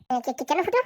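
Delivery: low stuttered question, rising at the end; stammering. Acted. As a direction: stumble repeatedly before getting the question out. Stammers asking Futo why.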